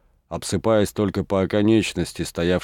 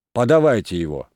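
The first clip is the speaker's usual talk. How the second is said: shouting; 2 semitones higher, 4 dB louder than usual. Acted. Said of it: "закричал голова".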